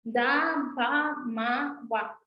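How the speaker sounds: "Da, ba, ma, wa" each with its built-in a; "Da, ba, ma, wa" spaced and clear; syllable demo. Shown as a demonstration. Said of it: "así va a pronunciarse".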